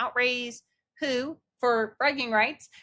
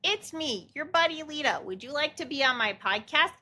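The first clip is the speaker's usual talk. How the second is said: a hint of a bright, higher cheery pitch; friendly pitch; 5 semitones higher than usual. Mom voicing daughter handing out business cards, mildly cheery. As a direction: offer the card sweetly. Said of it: "business cards that you can hand to people going".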